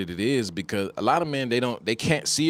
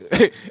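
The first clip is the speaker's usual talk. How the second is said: burst of laughter; 8 semitones higher, 9 dB louder than usual. Real, not acted. Laughing at own story.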